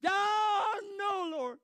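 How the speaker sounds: high, loud screamed cry to God. Shown as a demonstration. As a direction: scream it out in desperate prayer. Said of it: "like a scream".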